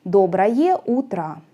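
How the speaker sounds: Доброе with the unstressed O said as A; Доброе утро with reduced vowels; Russian akanye demo. Shown as a demonstration. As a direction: show the A sound in Доброе утро. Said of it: "it is pronounced like A".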